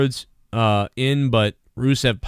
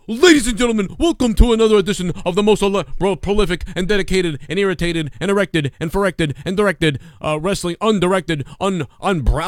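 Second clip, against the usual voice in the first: mock announcer; 4 semitones higher than usual. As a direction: rattle off an overblown intro. Parody of a rambling announcer.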